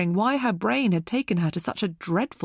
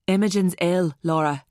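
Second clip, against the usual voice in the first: lightly voiced teenage lad, slightly lower; a hint of a boy's newly deepened voice; broken-voiced teenage boy; 4 dB louder than usual. A narrator's reading. Teenage boy telling Laura bad news, newly deepened voice. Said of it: "his tone deeper now his voice had broken".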